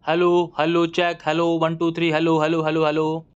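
booming sound check into his ear; loud mic check. Acted. Doctor tests the cleared ear with a loud mic check. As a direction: bellow hello like testing a microphone.

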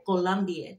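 "Colombian" in a Colombian woman's accent. Shown as a demonstration. As if a feisty woman corrects the reader, Colombian accent. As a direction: pronounce it with a heavy Colombian accent. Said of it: "correct me on how I'm saying it".

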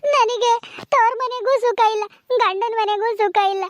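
drawn-out, grieving lament; slow lament. Acted. Wife laments no peace at her parents' or husband's home, slow and grieving. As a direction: let each word sag with grief.

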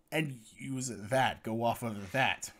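hiccup breaking the words. Real, not acted. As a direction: caught by a hiccup mid-phrase. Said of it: "Sorry, I hiccuped there".

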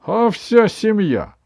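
high, slow triumphant granny; a grandmother beaming with pride; proud grandma. A narrator's reading.

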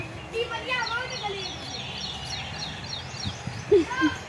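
soft high laugh; real laugh. Real, not acted. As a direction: laugh softly, off to the side. Amused while filming the little girls.

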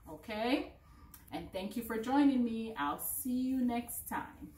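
loud, high and cheerful goodbye; bright kids show sign-off. Acted. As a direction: beam it out to the kids. Cheerful sign-off to young learners.

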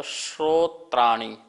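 श्रोत्राणि with a clear श fused to र, slowly; sh-r cluster. Shown as a demonstration. Teacher modelling shrotrani's sh-r cluster for class. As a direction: start श्रोत्राणि on a crisp shr, drawn out. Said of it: "जो शा और रा से मिलके बनता है".

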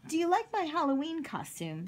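eager, high-pitched question. Acted. Octopus showing Cowboy a Halloween costume, eager.

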